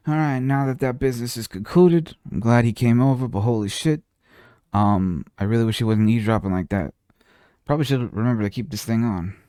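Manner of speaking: lightly voiced mob boss accent, musing to himself; mild gangster accent, thinking aloud; Godfather accent. Godfather talks to himself in a light mob accent. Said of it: "me just talking in an accent".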